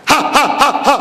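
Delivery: staged ha-ha-ha of jeering relatives; mock mocking laughter. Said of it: "ठट्टे मार के हंसेंगे".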